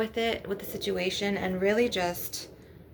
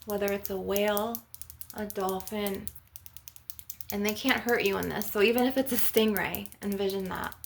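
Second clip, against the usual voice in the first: guided meditation. Acted. Healer guiding listeners to envision a healing ocean, guided meditation. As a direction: lead listeners gently through an imagined scene.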